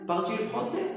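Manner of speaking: français lifted in a rising question tune. Shown as a demonstration. Teacher asking students the French question with a rising tune. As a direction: ask "Parles-tu le français?" with the pitch climbing on français. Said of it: "تتكلم الفرنسية؟".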